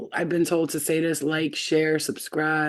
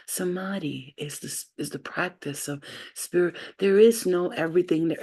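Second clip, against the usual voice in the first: lightly voiced sweet, calm guru; imitated calm teacher; 2 semitones higher than usual. Showing viewers how the Samadhi teacher sounds, calm imitation. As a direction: gently imitate a soothing spiritual teacher. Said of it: "this guy talking real calm".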